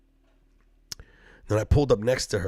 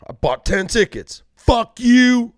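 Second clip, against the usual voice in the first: loud, higher, furious redneck rant; monster truck guy; 7 semitones higher, 9 dB louder, slower than usual. Retold or imitated. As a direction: yell it like an offended truck fan. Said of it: "the monster truck guy's like".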